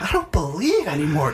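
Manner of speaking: mock giving up. Swimmer calling back to his friends, mock despair. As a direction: call back in mock defeat.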